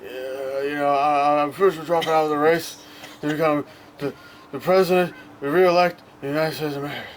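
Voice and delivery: put-on mumbling old president. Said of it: "Wait, do, do the impression".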